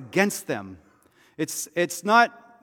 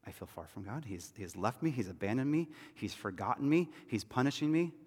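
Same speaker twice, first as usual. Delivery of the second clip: a hint of a downcast friend, softer; hurting friend; 7 dB quieter than usual. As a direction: murmur it like someone worn down. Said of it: "they gave this kind of a story".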